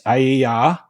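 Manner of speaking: letter by letter, spelling to prove a point; deliberate letter-by-letter spelling. Shown as a demonstration. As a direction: spell it out in two groups, pausing between. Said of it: "That's what it is".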